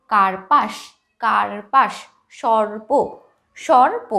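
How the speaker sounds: কার্পাস and সর্প with a distinct r sounded before the প; clear r before p. Shown as a demonstration. Teacher shows students the r before p, clearly articulated. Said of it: "পয়ের আগে কিন্তু একটা আমি রয়ের উচ্চারণ করছি".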